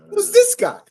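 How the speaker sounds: plain question. Shown as a demonstration. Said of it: "Did I not just say that?".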